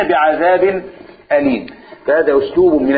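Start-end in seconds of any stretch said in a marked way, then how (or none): 0.0-1.7 the drop. Shown as a demonstration. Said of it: "هتاخد الوقعة على دماغك كويس".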